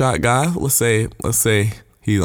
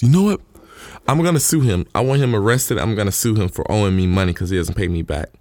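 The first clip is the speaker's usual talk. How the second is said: indignant threat. Retold or imitated. Forgiven man threatening his debtor, mildly acted indignation.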